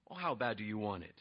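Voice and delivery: low, very soft taunt; sly, hushed bargaining voice; crafty teasing. Retold or imitated. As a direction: toy quietly with a desperate brother. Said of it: "Jacob is crafty".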